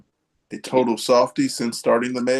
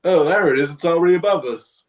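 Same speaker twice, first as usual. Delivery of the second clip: excited discovery; 6 semitones higher, 4 dB louder than usual. Retold or imitated. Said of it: "I'm like".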